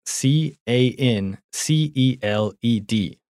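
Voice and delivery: letters of canceled said one by one, slowly; spelling it out. Shown as a demonstration. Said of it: "麻烦Duncan帮我拼一下哦".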